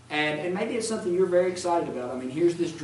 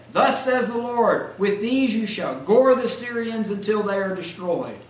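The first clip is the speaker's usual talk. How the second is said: proclaiming prophet; 3 semitones higher, 5 dB louder than usual. Acted. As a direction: declare it like a herald before kings. False prophet proclaims to kings.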